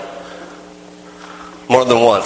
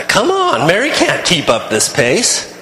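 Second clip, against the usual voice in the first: high whiny protest on come on; a mild mock complaint; complaining; 3 semitones higher than usual. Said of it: "I'm complaining".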